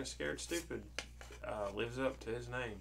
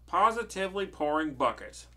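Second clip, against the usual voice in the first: higher, louder storybook complaint; hammed-up moan; 5 semitones higher, 9 dB louder than usual. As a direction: moan it playfully as a fed-up witch. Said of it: "moaned another".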